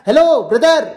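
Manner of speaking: lightly called-out hello; demo greeting call. Shown as a demonstration. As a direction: hail a brother, as an example. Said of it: "ऐसे बोलते हैं ना". (पुकारने का नमूना)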